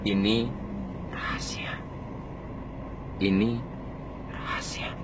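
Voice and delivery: "rahasia" breathed in a soft whisper; hushed confiding whisper; whispered secret. Shown as a demonstration. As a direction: lean in and whisper "Ini rahasia". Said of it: "kita pakai nada rendah".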